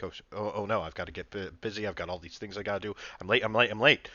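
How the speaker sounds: flustered, hurried character; busy and rushing, words tumbling; talking fast. Shown as a demonstration. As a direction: rattle it off like you're late. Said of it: "kinda talking fast".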